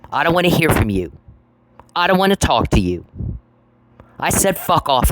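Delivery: real exasperation, not shouted; exasperated refusal. Real, not acted. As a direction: push them away, each sentence falling from high. Repeated refusal to unwanted contact.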